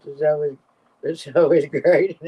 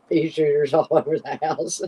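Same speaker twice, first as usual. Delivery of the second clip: words broken by a laugh. Real, not acted. Host reading a viewer's joke, laughing through it. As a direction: giggle through the end of the line.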